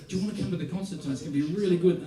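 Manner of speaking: just blurt out the invite, no thinking; quick, keen, unplanned ask; natural eager invitation. Shown as a demonstration. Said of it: "You just walk up and go".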